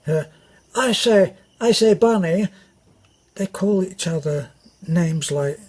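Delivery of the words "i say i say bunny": lightly put-on plummy English officer voice; mock the officers' posh way of talking; posh upper-class accent. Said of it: "a very posh, uh, an, an upper class way".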